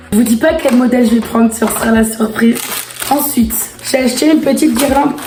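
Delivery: losing her voice, rough and strained; real laryngitis, voice half gone; hoarse voice. Real, not acted. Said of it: "j'ai une extinction de voix".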